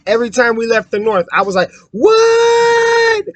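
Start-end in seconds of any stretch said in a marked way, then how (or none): 1.9-3.2 a sudden, much higher yelled what; shocked what. Retold or imitated. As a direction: yelp it out in disbelief. Retelling own shocked reaction.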